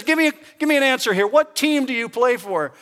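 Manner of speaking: imitated angry coach, high and loud; chewing out. Manager to player on the third base line, chewing her out. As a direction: fire it off as a mock dressing-down. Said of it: "he begins giving it to her".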